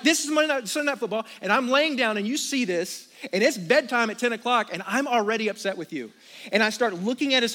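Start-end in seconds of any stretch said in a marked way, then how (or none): 0.0-6.1 raised, exasperated complaining to himself; mock irritated rant. Dad annoyed at his son over late homework, mock exasperated. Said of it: "Because I'm like".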